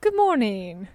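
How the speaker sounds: badly faked British accent; halting, self-conscious British greeting. Shown as a demonstration. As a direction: try on a British voice, not very well. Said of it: "This is me doing a British accent".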